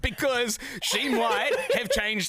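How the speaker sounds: lightly hammed-up show host; mock cliffhanger teaser. Host teasing listeners about a trivial change, mock-dramatic.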